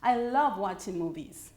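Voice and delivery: "I love watching movies" going down in pitch at the end; falling statement intonation. Shown as a demonstration. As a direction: stress "love" and let "movies" fall low. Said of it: "So I go down on".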